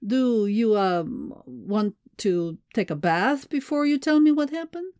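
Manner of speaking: hesitant question climbing high at the end; suppressed amusement. A narrator's reading. Alexei asks muddy Mai about a bath, suppressing laughter. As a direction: ask carefully, holding back a laugh. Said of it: "He struggled again to keep from laughing".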